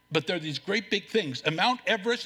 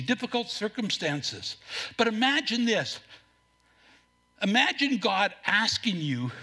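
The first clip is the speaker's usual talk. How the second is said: normal talking voice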